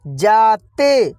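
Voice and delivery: जाते stretched very slowly for pupils; slowly drawn out. Shown as a demonstration. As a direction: sound out जाते slowly, like a teacher. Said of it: "क्या होगा?". (जाते को बहुत धीरे खींचकर बोलें)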